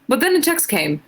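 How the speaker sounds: put-on a shaky try at an Irish accent, drifting British; reading fan fiction aloud in a so-so Irish lilt; attempted Irish accent. Streamer reading fan fiction to chat, in a struggling Irish accent. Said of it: "trying her best to do an Irish accent".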